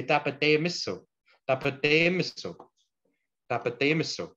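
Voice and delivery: "Tapate miso" drilled three times, clear and even; repeat for class. Shown as a demonstration. Teacher models for Cree learners: "Tapate miso" repeated clearly. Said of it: "you just say".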